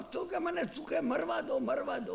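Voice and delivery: retold screaming. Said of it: "ચીસો પાડવા લાગ્યો".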